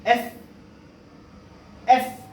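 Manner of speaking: एस with air pushed out; French letter S. Shown as a demonstration. Teacher spelling the French alphabet, airy एस. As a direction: hiss the एस out clearly. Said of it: "हवा बाहर की तरफ निकलेगा".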